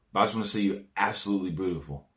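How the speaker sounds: quick slurred compliment; slurring words. Real, not acted. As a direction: slur the words a little. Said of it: "I'm slurring my words".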